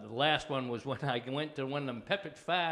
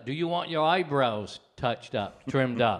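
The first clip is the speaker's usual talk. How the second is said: 1 quoted hairdresser; 6 dB louder, slower than usual. Retold or imitated. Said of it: "she says".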